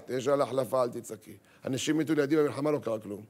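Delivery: low, even, dismissive calm; a hint of a stoic husband; unfazed husband. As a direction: brush off her panic. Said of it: "איך הטון הזה?".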